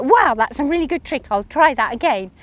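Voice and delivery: lightly amazed quote; impressed reaction. Retold or imitated. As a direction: act out pleased surprise at a new trick. Retold delight at a riding trick.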